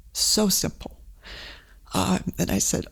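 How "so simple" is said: breathy near-whisper repeat, voice falling away; the words trail off almost voiceless, still moved; hushed, moved echo. Real, not acted. Recalling the neighbour's words, a hushed moved echo. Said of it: "And it still affects me today".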